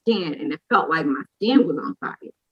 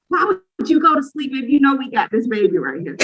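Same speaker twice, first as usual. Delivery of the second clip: mad at mom; 5 semitones higher than usual. Retold or imitated. New mom to her sleeping mother, retold angry complaint. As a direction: demand an answer in exasperation. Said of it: "I was so mad at my mom".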